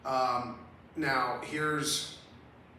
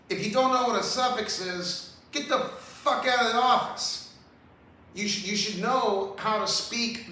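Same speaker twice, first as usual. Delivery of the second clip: heated outburst; 6 semitones higher, 3 dB louder than usual. Real, not acted. Ranting at Karen Bass.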